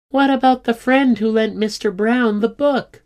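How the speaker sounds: piping, insistent objection; protesting schoolgirl. A narrator's reading. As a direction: challenge her in a high, urgent pitch. Livy challenges Squiddy in quarrel.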